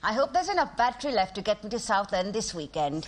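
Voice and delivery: lightly voiced elderly auntie, teasing; a hint of an old lady gossiping; old pensioner lady. Comedian playing elderly Asian pensioner.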